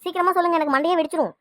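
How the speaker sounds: frantic mother demanding answers now; alarmed panic. Acted. Mother to husband, panicking over police news.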